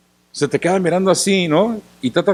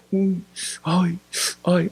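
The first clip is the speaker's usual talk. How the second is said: mock groaning; 7 dB quieter, much slower than usual. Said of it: "No es que esté pujando".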